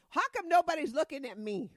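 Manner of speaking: high, loud laughing complaint. Real, not acted. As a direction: laugh it out, whining.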